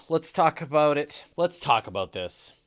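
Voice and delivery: put-on loud Canadian accent. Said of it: "in his Canadian accent".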